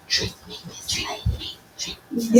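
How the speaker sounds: whispered, playful temptation; talking champagne's whisper. Pretend. Champagne tempting the host to drink, whispered. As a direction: whisper like a drink luring someone in. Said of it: "looking at me and say".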